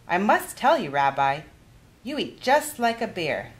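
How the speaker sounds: put-on kindly old granny offering a game; Baba Bryna's voice. Baba teases.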